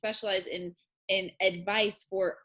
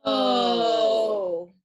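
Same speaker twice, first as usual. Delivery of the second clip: startled cry; 6 dB louder than usual. Acted. Host startled by guest's return.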